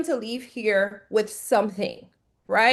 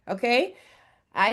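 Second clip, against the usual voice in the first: ordinary talk, nothing marked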